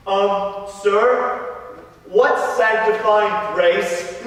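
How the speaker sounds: slow, drawn-out schoolboy question; hesitant pupil asking the master, slowly. Acted. Brendan asks the master about grace, hesitant and slow.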